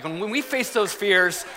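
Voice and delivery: lightly hammed-up rousing speech; a hint of an orator, emphatic phrases slowing to the end; dad playing the inspirational statesman; Teddy Roosevelt. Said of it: "I was like Teddy Roosevelt".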